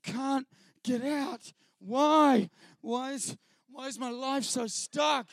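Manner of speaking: slow, overacted anguish with loud cries of No; mock skit actor wailing about his stuck life; hammed-up despair. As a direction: ham up the stuck man in the Christian skit. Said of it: "he's doing this".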